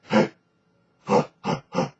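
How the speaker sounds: unvoiced panting huh; short breathy belly pushes; diaphragm grunt. Shown as a demonstration. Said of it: "that sort of cookie monster".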